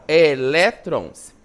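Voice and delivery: "elétrons" slow and loud in separate syllables; teacher spacing out "elétrons", syllable by syllable; split into syllables. Shown as a demonstration. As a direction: break "elétrons" into e-lé-trons.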